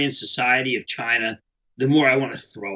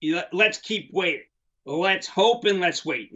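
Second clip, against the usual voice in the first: mocking dithering; 4 semitones higher, slower than usual.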